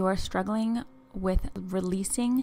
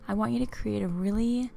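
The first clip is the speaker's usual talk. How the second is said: guided visualization. Acted. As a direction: ease the listener along, unhurried and hushed.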